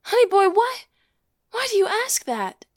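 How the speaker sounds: shocked. Acted. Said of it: "Rachel recoils as though she has been struck".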